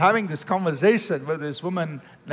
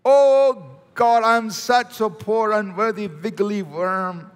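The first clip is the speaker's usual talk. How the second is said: a hammed-up, self-abasing plea that fades; mock groveling prayer; 2 semitones higher, slower than usual. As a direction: play the grovelling worm, half in jest. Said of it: "Jesus never said, "Do those kinds of things".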